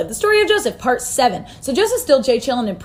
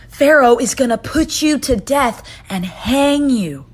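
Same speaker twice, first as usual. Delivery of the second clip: grim verdict; 3 dB louder, slower than usual. Acted. Joseph delivers grim dream meaning.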